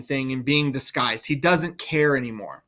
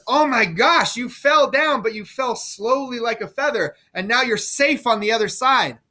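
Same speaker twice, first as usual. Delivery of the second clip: higher, excited stranger's voice; guy at cliff bottom; 5 semitones higher than usual. Acted. Edgar posing as a stranger at the cliff foot, excited. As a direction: play a startled passerby below the cliff. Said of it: "he pretends to be a guy at the bottom of the cliff".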